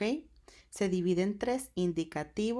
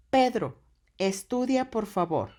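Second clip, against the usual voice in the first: higher, louder, a mother's firm order; commanding mom; 4 semitones higher, 5 dB louder than usual. Shown as a demonstration. Teacher voicing a mother ordering Pedro to study, firm. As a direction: tell Pedro firmly to study. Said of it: "entre signos de admiración".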